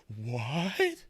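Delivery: normal talking voice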